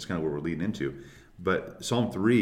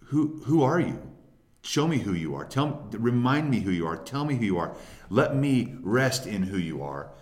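higher, earnest appeal to God; sincere questioning; 4 semitones higher than usual. Acted. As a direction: plead to be shown, humbly questioning. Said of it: "going to God and questioning him".

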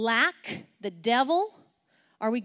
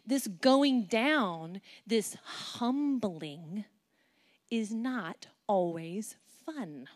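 very slow, drawn-out words; much slower than usual. Real, not acted. Preacher slows right down on humbling. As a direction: stretch each word out heavily.

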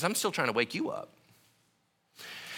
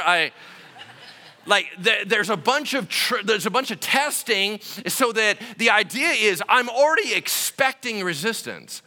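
usual speaking voice

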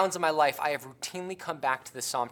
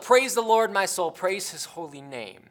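calling out praise; 3 semitones higher, 4 dB louder than usual. Retold or imitated. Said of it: "he calls out".

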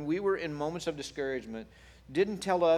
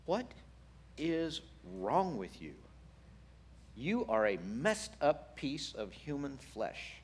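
mock scolding; 4 dB quieter, slower than usual. Mock scolding God, slow and deliberate.

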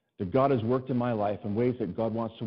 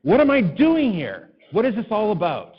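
loud, high, slow, laughing through it; laughing disbelief; 9 semitones higher, 7 dB louder, slower than usual. Retold or imitated. Pastor loudly laughing at God in disbelief after the kids. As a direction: marvel at God half laughing. Back in room, bewildered prayer.

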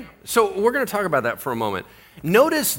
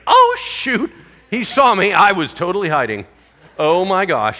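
high, loud panicked demon; a caught demon yelping in alarm; 3 semitones higher, 5 dB louder than usual. Acted.

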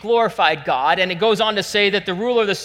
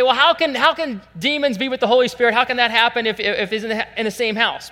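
higher, louder challenge to a claim; incredulous objection; 6 semitones higher, 4 dB louder than usual. Acted. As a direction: protest it as a baffled objector. Acting out an objector's protest.

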